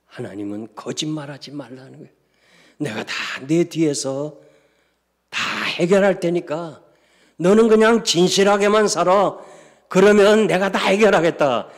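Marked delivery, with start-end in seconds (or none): 2.8-11.7 high and loud reassurance; soaring promise. Acted. God promising the congregation, soaring preach. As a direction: build the promise to a peak.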